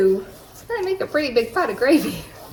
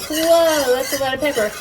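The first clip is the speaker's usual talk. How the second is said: mock surprise; 4 semitones higher than usual. Cook voicing a first reaction to the pepper, mock surprise. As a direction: play it up as if startled by the pepper. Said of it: "So at first it's like".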